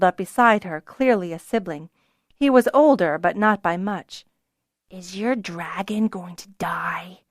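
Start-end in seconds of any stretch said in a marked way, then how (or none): 4.9-7.2 whispered. Acted. Small boy asks fearfully.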